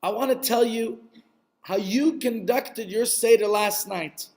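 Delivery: gentle, patient coaxing with long pauses; kindly. Acted. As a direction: reassure a frightened man, unhurried. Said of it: "looked at him very kindly and said".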